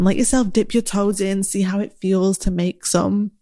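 talking through the hiccups; words broken by hiccups. Real, not acted. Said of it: "sorry, I've got the hiccups".

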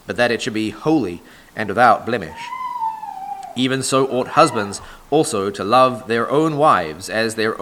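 measured, solemn Bible reading from the pulpit; scripture reading. Acted. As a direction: read the verses aloud to the congregation, weighty and deliberate.

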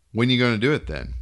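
eager. Acted. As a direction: ask it eagerly, pushing. Eager ghoulish question.

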